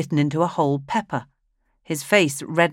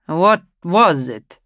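loud, slow demanding question; urgent question; 7 dB louder, slower than usual. A narrator's reading. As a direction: press him for an answer. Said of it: "Schedoni asked".

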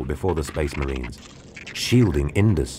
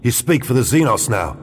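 spat out; 5 semitones higher than usual. Acted. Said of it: "spat Nord".

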